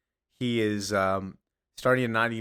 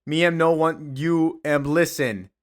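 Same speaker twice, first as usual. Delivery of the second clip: a touch higher, slowed broken-grammar Bizarro speak; talking Bizarro; 5 semitones higher than usual. Retold or imitated. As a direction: put on the backwards Bizarro talk to win them over. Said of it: "I gotta talk like them".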